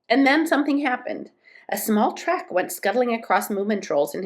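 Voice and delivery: measured storybook reading; story narration. A narrator's reading. Moomin Troll alone in the winter wood, story narration. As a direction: read the tale aloud, phrase by phrase.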